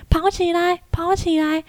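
imitating a cameraman shouting, pitched high; mock shout. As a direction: call out like an encouraging cameraman, mildly. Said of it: "他就开始喊".

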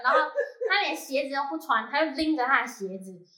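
high, loud, laugh-through retelling; laughing while telling. Real, not acted. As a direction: tell it half-laughing at the absurdity. Laughing while retelling absurd scene.

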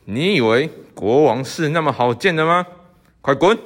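a touch of anger building to a bark; gruff guard. Acted. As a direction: shoo the old man off. Guard drives visitor away.

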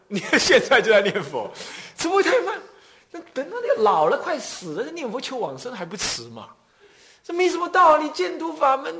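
high, laughing ridicule; scoffing classmate. Retold or imitated. Classmate ridiculing the speaker's chanting, high with laughter. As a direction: laugh him off as naive.

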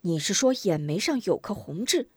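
intent, questioning echo at normal pitch; startled grandmother. Acted. Grandmother checks the boy's memory, startled question. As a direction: check the detail with an older woman's surprise. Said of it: "康婆婆一惊".

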